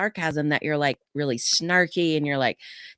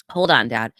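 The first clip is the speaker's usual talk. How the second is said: calm firm voice; 5 dB louder than usual. Retold or imitated. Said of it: "I'm using just this voice".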